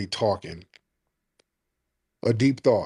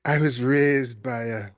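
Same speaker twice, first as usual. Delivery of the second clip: lightly mimicked British caller; mock the caller with a put-on British accent. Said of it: "a British accent".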